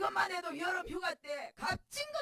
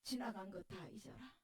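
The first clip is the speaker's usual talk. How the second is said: soft, lower comfort with 다 leaned on; old pastor hugging a weeping woman, soft; gentle comfort; 6 semitones lower, 11 dB quieter than usual. Retold or imitated. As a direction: say 지나간 것 다 잊어라 softly as an old pastor consoling. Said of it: "목사님이 나를 끌어안고".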